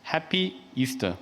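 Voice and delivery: "Happy Easter" said slowly, word by word; careful English greeting. Shown as a demonstration. Priest showing Easter greetings by country, careful slow "Happy Easter". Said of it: "이런 식으로 이제 발음을 하길래".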